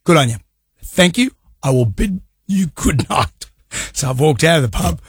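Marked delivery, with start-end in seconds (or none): 0.1-3.5 mock polite farewell. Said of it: "I said".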